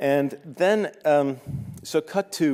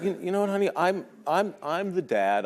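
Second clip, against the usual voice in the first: laughing; 9 semitones higher than usual. Retold or imitated. Laughing reply to daughter.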